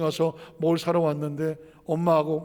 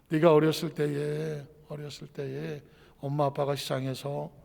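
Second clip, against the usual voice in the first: soft confession; 3 dB quieter than usual. Retold or imitated. Mother tells of the fire.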